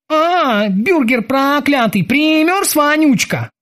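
high spiteful cursing; angry muttering. Acted. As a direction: curse him spitefully while working. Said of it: "зло приговаривал он".

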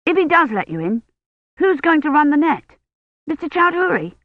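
put-on anxious kid firing questions; boy Colin. A narrator's reading. Boy questioning Dunworthy about the net, rising boy voice. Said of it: "narrator voicing boy Colin".

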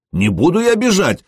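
high, indignant protest; indignant outburst. Acted. Insulted lad protesting to the prince, high and indignant. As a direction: refuse hotly, offended. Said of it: "возмутился Ход".

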